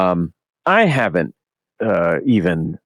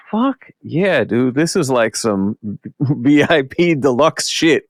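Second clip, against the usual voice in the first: retold thrill; 4 semitones higher, slower than usual. Retelling thrill at backstage access.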